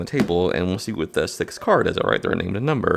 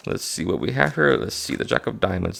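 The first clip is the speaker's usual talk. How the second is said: too obvious; 2 semitones lower than usual. Shown as a demonstration. Teacher demoing the clumsy version to a student, rushed and obvious. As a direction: give the game away by going right to it. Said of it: "That would, that would be kind of obvious".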